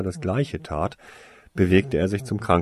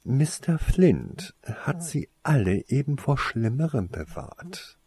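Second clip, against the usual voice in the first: raised-pitch, controlled scolding; restrained displeasure in a higher voice; indignant reprimand; 5 semitones higher, 3 dB quieter than usual. A narrator's reading. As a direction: lecture sternly without shouting. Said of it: "bellte Snape ungehalten".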